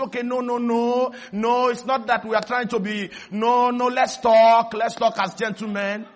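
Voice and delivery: mild mock placating; smooth things over, backpedalling; backing-down negotiator. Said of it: "they start negotiating".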